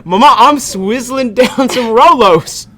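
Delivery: high, slow bragging brat; spoiled rich kid. Pretend. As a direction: gloat to Mama like a spoiled teen. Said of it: "Rich Southern gamer".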